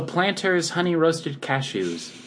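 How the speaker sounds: slow, deliberate ad read; like a TV commercial pitch; hard sell ad. Acted. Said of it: "You said that like a commercial".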